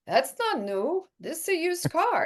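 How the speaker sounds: put-on half-managed Austrian accent, stretching the words; Arnold Schwarzenegger. Arnold pranking co-star about her new car, badly faked Austrian accent. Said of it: "I can't do his accent that well".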